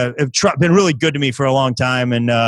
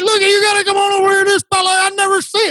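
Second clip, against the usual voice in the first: hick farmer. Retold or imitated. Farmer in the crowd jeers at the comedian, very high hick voice. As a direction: cackle at the city comic like a farmer. Farmer calls others over.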